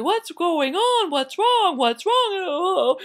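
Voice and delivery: high, loud, drawn-out question; alarmed rabbi. Acted. Rabbi coming upon the crying town, alarmed. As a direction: demand it in mock alarm. Rabbi arrives amid wailing.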